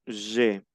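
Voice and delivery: "je" with the AI said as one E vowel. Shown as a demonstration. Teacher shows students the vowel rule, "je" ending in E. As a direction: say "je" ending on a pure E sound. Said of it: "la A con la I se pronuncia E".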